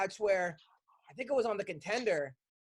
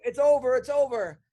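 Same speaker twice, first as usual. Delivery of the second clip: raised, urgent call; excited onlookers; 3 semitones higher, 5 dB louder than usual. Retold or imitated. Podcaster retelling how everyone reacted to the fight, excited. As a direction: call the fight finished like the crowd. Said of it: "everyone was like".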